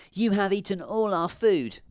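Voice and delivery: put-on high-pitched little girl's protest; indignant cry. A narrator's reading. Girl accusing the witch of eating lunch, indignant cry.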